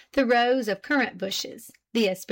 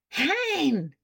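startled exclamation; 6 semitones higher than usual. A narrator's reading. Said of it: "he exclaimed".

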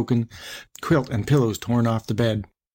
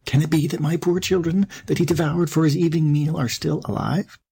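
higher-pitched, mild wonder; a touch of amazed questioning, pitched up; hopeful wondering; 5 semitones higher than usual. Acted. Mother goat wonders if children live, mildly hopeful.

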